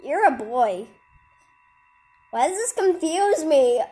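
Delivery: loud giant boom. Acted. Reading a giant's line, booming at the boy. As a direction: bellow like a big giant.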